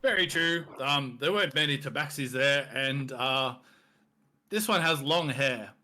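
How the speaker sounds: lightly voiced hearty minotaur, a bit high and loud; jovial minotaur boss. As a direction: play the friendly beast merchant.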